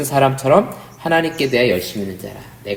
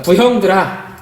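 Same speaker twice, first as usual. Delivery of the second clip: raised address to a crowd; acted orator's opening call; 7 semitones higher, 4 dB louder, slower than usual. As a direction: call the elders to attention, pitched up.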